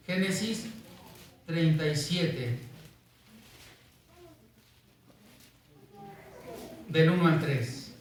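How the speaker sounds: treinta y siete, del uno al tres, slow with long pauses; slow dictation. Shown as a demonstration. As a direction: spell the reference out slowly. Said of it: "síganme ahí con su vista".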